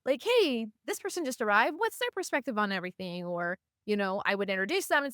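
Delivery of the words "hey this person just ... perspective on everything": welcoming a newcomer. Retold or imitated.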